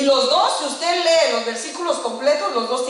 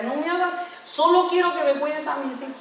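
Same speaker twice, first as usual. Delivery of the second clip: slightly raised, insistent request; earnest instruction; 4 semitones higher than usual. Retold or imitated. Mother instructing her housemaid, earnest and insistent. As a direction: lightly re-enact a mother's plea. Acting her plea to the maid.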